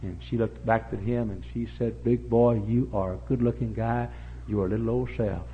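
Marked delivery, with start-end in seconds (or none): 2.0-5.5 put-on southern-accented flirtation. Delilah flattering Samson, southern accent. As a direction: flatter him as a southern temptress. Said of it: "Bad women always have southern accents".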